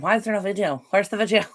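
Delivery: lightly voiced impatient viewer, barely off her own voice; a half-hearted mock of a viewer demanding the video; mild, self-mocking whine of a viewer; terrible viewer impression. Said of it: "that was a terrible impression of".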